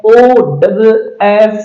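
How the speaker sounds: slow careful spelling; teacher spelling it out; spelled slowly. Shown as a demonstration. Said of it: "इसको पढ़ा जाता है".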